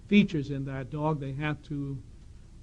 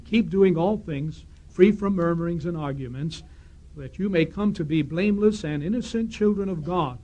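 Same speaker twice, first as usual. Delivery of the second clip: scripture reading; 3 dB louder than usual. Acted. Speaker reading Philippians to the congregation, measured scripture reading. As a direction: read the Bible text out deliberately to the hall.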